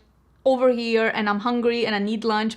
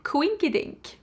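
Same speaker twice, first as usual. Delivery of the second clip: feigned surprise; 7 semitones higher than usual. Retold or imitated. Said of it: "I'm like".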